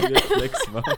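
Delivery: high, loud, words squeezed through laughter; cracking up hard; laughing. Real, not acted. Laughing at the casting joke.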